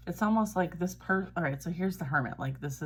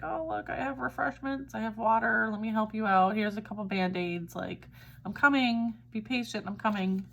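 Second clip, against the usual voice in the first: higher, urgent reassuring voice; eager helper; 5 semitones higher than usual. Acted. Relief energy to a worn-out warrior, eager helper voice. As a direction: play a rescuer calling out that help is coming.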